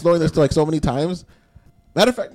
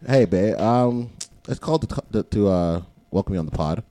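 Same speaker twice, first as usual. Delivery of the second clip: news reporter voice; 3 semitones lower than usual. Acted. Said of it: "like, news reporter voice on".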